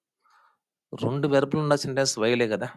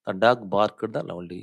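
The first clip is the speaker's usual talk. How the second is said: slow example reading; much slower than usual. Shown as a demonstration. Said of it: "this called main class".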